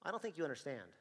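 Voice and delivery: stern, level correction; officer warning the shoplifter; firm warning. Retold or imitated. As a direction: put him straight, firmly. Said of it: "And I go".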